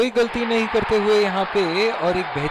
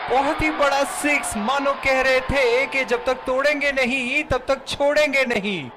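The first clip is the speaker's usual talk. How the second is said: excited commentary; 6 semitones higher than usual. Acted. Big six called in commentary.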